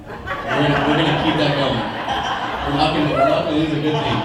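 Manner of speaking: laughing through the words; laughing while talking. Real, not acted. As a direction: chuckle through it. Laughing through toast opening.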